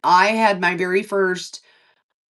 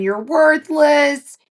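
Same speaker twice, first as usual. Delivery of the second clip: insult then apology; 4 semitones higher than usual. Retold or imitated. Patient mocking her own meltdown to the nurses, slow then a high sorry. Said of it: "and then saying".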